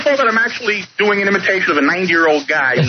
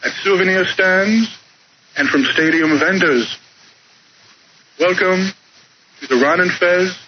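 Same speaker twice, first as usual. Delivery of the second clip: a light, slow stadium announcer voice, each phrase spaced out; Bob Shepard impression. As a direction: announce it slowly like a ballpark PA man, barely changing the voice. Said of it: "I've been doing Bob Shepard, the Yankee Stadium announcer".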